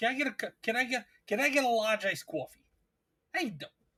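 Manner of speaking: put-on New Jersey accent. Retelling ordering coffee at a drive-through, New Jersey accent. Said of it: "She pulled out the north the, the jersey".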